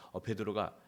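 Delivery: ordinary talk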